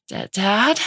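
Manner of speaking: put-on a small girl's high, halting call; stammering little girl. A narrator's reading. Little daughter unsure, calling to her dad, stammering. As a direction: stutter it out like a scared young child. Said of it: "Blewett called".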